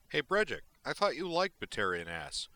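loud, high teasing call. Acted. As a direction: shout it across the room. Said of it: "called from across the room".

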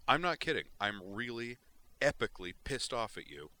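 high, loud and seething; furious outburst. Acted. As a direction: make her feel how mad you are. Griffin furious at Vision.

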